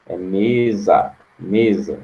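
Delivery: mesa with closed ê, slow. Shown as a demonstration. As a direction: say "mesa" with a closed ê sound, like a circumflex. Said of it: "Esse é com som de acento circunflexo".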